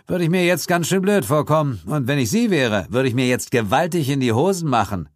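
a hint of a calm, mocking hero voice; lightly mocking detective; lightly voiced Suko. A narrator's reading. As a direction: tease the killer with amused calm.

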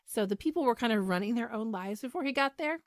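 strained, tiring voice; losing voice. Real, not acted. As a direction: voice starting to give out. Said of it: "I'm losing my voice here".

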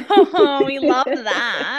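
laughing through the words. Real, not acted. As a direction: laugh as you say it. Laughing at a funny remark.

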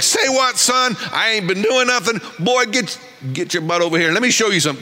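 a hint of a scolding father; God calls his son over; preacher voicing God as a stern father calling his son over; mock stern God. God voiced scolding believer.

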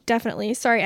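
just choked, pushing words out; choking on a drink. Real, not acted. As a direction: voice caught after choking on water. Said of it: "I just choked on my water".

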